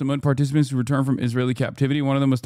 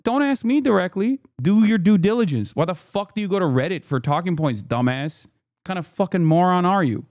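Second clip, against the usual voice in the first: mocking angry rant; 5 semitones higher than usual. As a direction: ham up his condescending outburst. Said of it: "Not just like".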